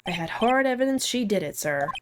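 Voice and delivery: lightly voiced cop with a slip toward Southern; Gumshoe. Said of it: "like, a southern accent".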